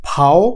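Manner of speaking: "ফাও" as German V, pronounced "fow"; German letter V. Shown as a demonstration. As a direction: say "ফাও" with an f and ow glide. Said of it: "তখন এটার উচ্চারণ হবে".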